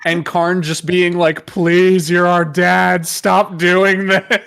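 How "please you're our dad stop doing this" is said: imitated begging, drawn out at the end; hammed-up plea, slowing to a wail; mock pleading. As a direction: plead like a battered son, played for laughs. Karn begging his father, retold.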